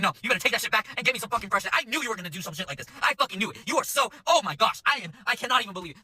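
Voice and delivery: rising indignant complaint; ranting customer. Retold or imitated. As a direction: imitate an outraged diner on a rant. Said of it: "literally going on a fucking rant".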